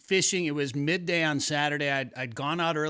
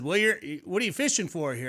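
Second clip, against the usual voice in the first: lightly put-on Southern accent, higher pitched; 4 semitones higher than usual. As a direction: imitate an angler with a hint of Southern accent. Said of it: "they have a Southern accent".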